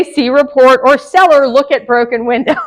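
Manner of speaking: mock curt note. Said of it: "Do not say".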